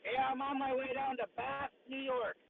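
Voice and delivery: like talking in a tunnel; boxy, muffled phone mic. Real, not acted. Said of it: "You sound like you're in a tunnel".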